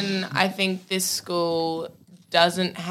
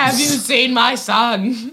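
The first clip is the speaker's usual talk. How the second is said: screaming parent; 4 semitones higher, slower than usual. Retold or imitated. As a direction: plead it like a panicked parent. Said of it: "Screaming parent".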